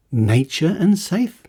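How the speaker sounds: disbelieving rise on "and"; incredulous echo. Real, not acted. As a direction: repeat it in disbelief, rising on "and".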